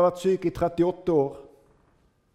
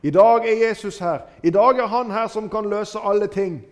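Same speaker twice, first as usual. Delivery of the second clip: higher and louder, eager and pressing; urgent hope; 4 semitones higher, 6 dB louder than usual. Retold or imitated. Blind Bartimeus realizing Jesus is near, eager and loud. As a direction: seize the one chance. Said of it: "Han forstår".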